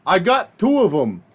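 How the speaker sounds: put-on coworker's New York–Chicago accent. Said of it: "New York Jewish and South Side of Chicago white guy".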